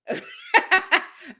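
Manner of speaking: a high, loud laugh bursting out; real burst of laughter. Real, not acted. Host laughing at a viewer's emoji mix-up, real burst of laughter. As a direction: laugh out loud, caught off guard.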